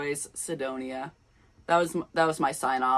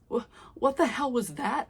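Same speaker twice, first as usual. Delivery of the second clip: stuttered; 7 semitones higher than usual. A narrator's reading. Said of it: "I stuttered".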